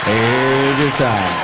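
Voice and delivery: slow, weighted on your; slow catchphrase. Acted. Comic to audience, slow punchline. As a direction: drag out the tag line.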